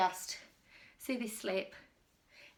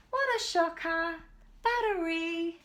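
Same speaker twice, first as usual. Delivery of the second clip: mock shock; 6 semitones higher, 4 dB louder, slower than usual. Real, not acted. Battery dies, mock dismay.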